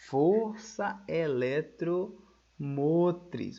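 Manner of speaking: força eletromotriz stretched out very slowly; slow dictation. Shown as a demonstration. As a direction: dwell on força eletromotriz as the term to note. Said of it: "recebe o nome". (ditando força eletromotriz bem devagar)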